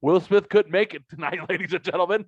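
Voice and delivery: mock awards host. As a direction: announce it to the hall like a show host.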